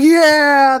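high, loud whoop of a cheering buddy; cheering yell. Retold or imitated. Buddies cheering as he's pulled into the back room, loud whoop. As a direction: whoop him on like a rowdy friend.

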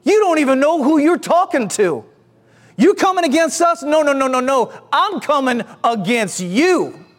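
mock-affronted challenge, slowing on the last line; indignant. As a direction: take offense on God's behalf. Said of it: "You can see the indig".

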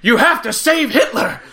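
slow, grand Doctor voice through a laugh; hammed-up Doctor. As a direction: lean into the order slowly and theatrically. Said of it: "He's like".

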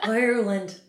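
put-on Irish-accented "Ireland" with a rolled r. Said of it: "You're, like, half Irish, half Scottish right now".

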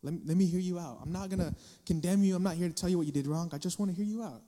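a hint of soft, patient concern; gentle caring. Parent gently asking a hurting child, lightly soft and caring. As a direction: ask gently, like a parent who listens. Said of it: "You've gotta be understanding".

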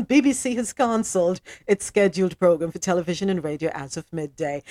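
put-on reading the news in a light British accent; a hint of a BBC newsreader's British accent. Host reads the BBC report to listeners, light British accent. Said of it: "my best British accent".

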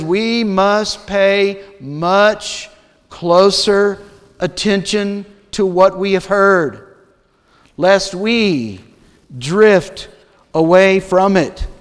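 very slow, weighty scripture quote; quoting scripture. Acted. Preacher quoting the warning to his church, drawn out and grave. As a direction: let each word land, drawn out. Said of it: "He says".

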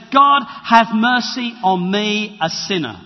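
slow, earnest plea for mercy; humble plea. Acted. Tax collector praying to God, slow and humble. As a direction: pray it slowly, head bowed. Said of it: "And he says".

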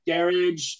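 garage drawn out as "GARR-idge"; British-style garage. Retold or imitated. Prompting for Uncle Paul's words, garage as "GARR-idge". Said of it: "say with a British accent".

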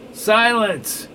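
loud, high barked command; furious shout. Acted. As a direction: cut him off with a shout. Neville cuts Glass off.

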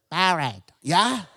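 buried said the English way, "berry-d"; buried as English people say it, like berry; English accent. Shown as a demonstration. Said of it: "you all say".

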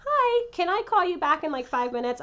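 bright phone voice, hurrying him off; dodging a caller. Real, not acted. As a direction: brush off the caller politely. Dad calls during podcast.

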